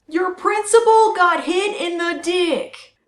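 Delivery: slow loud jeering; loud gleeful taunt. Acted. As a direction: jeer it out slowly.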